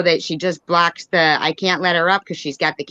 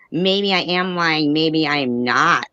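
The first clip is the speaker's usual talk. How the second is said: mocking quote; slower than usual. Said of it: "who would say".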